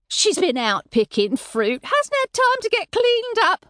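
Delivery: hurried, rising anxious babble; babbling. A narrator's reading. Mother excusing her daughter to the landlord, babbling. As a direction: babble to cover her embarrassment. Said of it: "Mother babbled".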